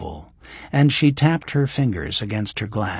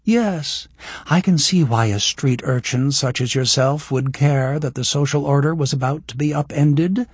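affable; 5 semitones higher, 3 dB louder than usual. Acted. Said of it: "she said in an affable voice".

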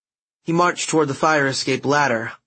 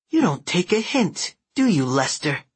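menacing thug voice; 6 semitones higher than usual. Acted. Thug threatens with knife.

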